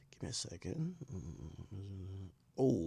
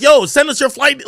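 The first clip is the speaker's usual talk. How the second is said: much higher, louder mock of eager callers; pushy callers; 12 semitones higher, 9 dB louder than usual. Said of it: "So they're like".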